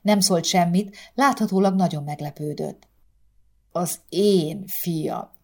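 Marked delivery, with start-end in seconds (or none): 3.7-5.3 slow, faltering despair; voice breaking. Acted. Father in despair over his son, voice breaking. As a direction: let the voice catch on the words. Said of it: "csuklott el őszinte kétségbeeséssel".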